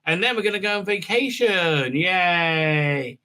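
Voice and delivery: mock cheery.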